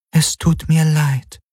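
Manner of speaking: high, drawn-out, regretful female voice; regretful Helix voice. A narrator's reading. The Shadow Helix answering Galen, regretful. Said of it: "Sie klang bedauernd".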